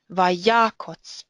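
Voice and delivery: vayakotz with long stressed "ya", light "kotz". Shown as a demonstration. Teacher showing where stress falls, on the ya of vayakotz. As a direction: stress "ya" in "vayakotz" and end on a short o. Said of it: "The stress is on the first syllable".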